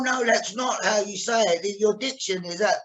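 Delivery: mock a teacher's objection; lightly acted diction coach; imitated voice teacher. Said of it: "She was going".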